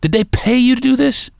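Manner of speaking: stunned, squeaky disbelief at a paid betrayal; incredulous accusation. Real, not acted. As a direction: ask it again as if you can't believe it. Accusing question, repeated incredulously.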